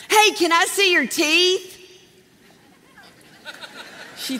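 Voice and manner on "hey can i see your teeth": playful tease. Retold or imitated. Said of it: "And so I was like".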